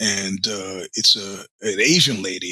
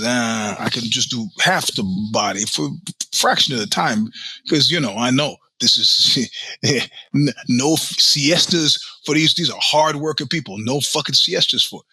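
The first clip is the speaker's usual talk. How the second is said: put-on Chinese accent. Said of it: "her Spanish with a Chinese accent".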